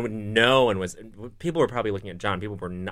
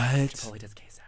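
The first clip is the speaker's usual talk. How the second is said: whispering; 5 dB quieter than usual. Real, not acted. Gossipy secret reveal.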